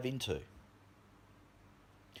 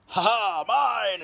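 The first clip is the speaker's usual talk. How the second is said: loud, high greedy ha ha; loud hammed-up miser's cackle; greedy gloating cackle; 10 semitones higher, 7 dB louder, much slower than usual. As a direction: gloat over the money like a miser. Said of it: "knocking Scrooge McDuck out of the way and going".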